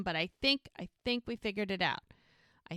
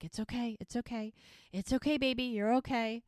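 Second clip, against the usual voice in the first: imitated soothing; 3 semitones higher than usual. Mel to Chloe who's freaking out, imitated soothing. Mother soothing crying child in story.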